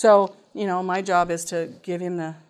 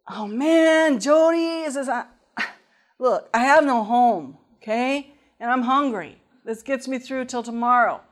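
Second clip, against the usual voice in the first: higher, louder pleading; pleading teen; 4 semitones higher, 5 dB louder than usual. Retold or imitated. Homeless student admitting to his teacher why he took food, pleading. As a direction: confess like an embarrassed kid.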